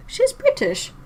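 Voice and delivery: can't believe it, ask it back; real surprise jumping way up in pitch; surprised. Real, not acted. Reacting in disbelief to chat.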